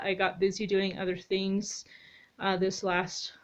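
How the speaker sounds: breathless after being outside; winded, catching breath. Real, not acted. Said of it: "Sorry, I'm out of breath".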